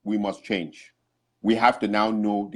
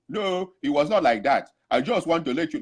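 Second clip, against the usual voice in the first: put-on pleading in an African accent; 3 semitones higher than usual. Man protesting to the court, African accent. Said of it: "his African accent".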